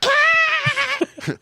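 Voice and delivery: high shrieking burst of laughter. Real, not acted. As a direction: let out a piercing laugh.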